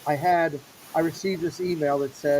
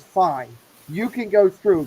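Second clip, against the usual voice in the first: sassy; 4 dB louder, slower than usual. Retold or imitated. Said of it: "with a little sassy thing".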